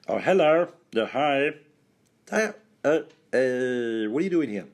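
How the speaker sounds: high, silly squeaky greeting; helium voice. Acted. Islanders greeting each other on Dragonstone, high helium voice. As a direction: talk as if you've breathed helium. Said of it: "atmosphere is rich in helium".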